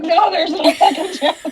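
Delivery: high, laughing no; laughing refusal. Retold or imitated. Mom laughing while refusing her son a second chance.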